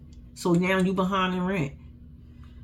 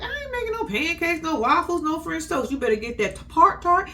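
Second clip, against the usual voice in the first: higher, hurrying mom voice; a hammed-up mom barking morning orders; bossy mom; 3 semitones higher than usual. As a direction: rush the kids out the door. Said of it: "She's like".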